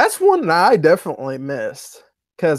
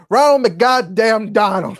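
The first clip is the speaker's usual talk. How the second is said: higher, slow put-on quote; imitated cursing catchphrase; 6 semitones higher, 4 dB louder, slower than usual. Echoing the favorite line from the video, slow high imitation. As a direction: stretch out the mimicked swearing. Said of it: "even Ty put in".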